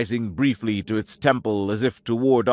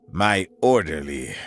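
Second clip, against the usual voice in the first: flat and dead; 5 semitones lower than usual. Acted. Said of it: "the words flat and dead".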